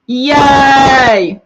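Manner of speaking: high, loud cheer; happy cheer at the chat; excited yay. Real, not acted. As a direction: whoop for the next arrival. Greeting fans in live chat.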